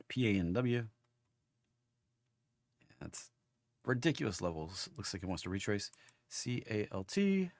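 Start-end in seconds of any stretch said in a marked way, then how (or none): 3.0-7.5 rough, gravelly hoarse voice. Real, not acted. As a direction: talk through a hoarse, gravelly throat. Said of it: "I sound like I got gravel in my throat".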